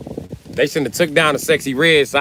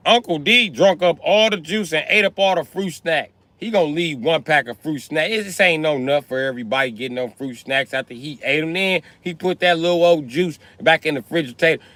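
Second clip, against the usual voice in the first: put-on kid tattling on uncle; 5 semitones higher than usual. Complaining about uncle, raised pitch.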